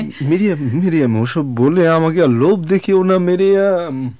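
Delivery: begging her to stop tempting him; anguished plea. Acted. Husband begs her not to tempt him. (যন্ত্রণায় উঁচু গলায় মিনতি)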